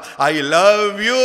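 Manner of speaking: very slow, loud, drawn-out I love you; child calling love into the forest. A narrator's reading. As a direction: call it out across the forest. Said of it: "जोर से चारों ओर आवाज करते हुए बोला".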